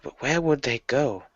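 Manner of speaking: soft, puzzled muttering to oneself; muttering aloud. Acted. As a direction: think aloud under your breath. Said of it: "gonna mutter aloud".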